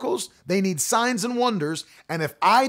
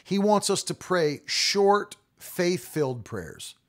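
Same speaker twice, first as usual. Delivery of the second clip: quoting the preacher; slower than usual. Retold or imitated. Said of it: "He said".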